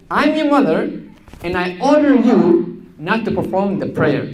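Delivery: lightly voiced mother giving an order; commanding mother. Mother ordering daughter not to pray, firm. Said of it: "that's what the mom said".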